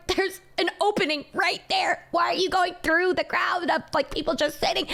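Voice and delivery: exasperated retold complaint; annoyed retort. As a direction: tell them off, incredulous.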